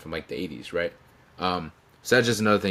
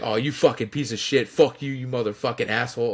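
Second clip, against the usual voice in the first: mock-angry tirade, slightly raised; retold cursing out; 4 semitones higher than usual. Wrestler walking to the curtain, imitated cursing at his friend. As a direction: imitate a friend swearing you out. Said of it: "he was just cursing me out".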